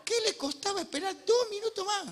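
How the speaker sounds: high, laughing disbelief; amused exasperated question; laughing exasperation. Acted. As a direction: laugh at Peter's haste.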